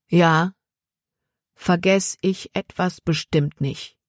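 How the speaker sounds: slow, each word weighed; every word stressed. A narrator's reading. Jordan to Sam, pressing each word. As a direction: lean on every single word. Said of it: "Jordan betonte jedes Wort".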